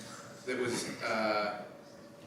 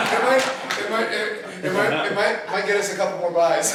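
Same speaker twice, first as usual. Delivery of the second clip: talking through laughter; chuckling between words; laughing; 9 semitones higher, 14 dB louder than usual. Real, not acted. Laughing about Europe price joke.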